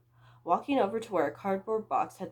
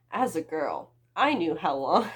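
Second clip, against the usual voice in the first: breaking into laughter; 5 dB louder than usual. Real, not acted. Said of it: "restarts after laughing".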